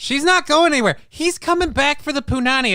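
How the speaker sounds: a hint of Jamaican on punani; Jamaican accent. Cohost joking about the student, light Jamaican accent. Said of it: "you went, uh, Jamaican for that".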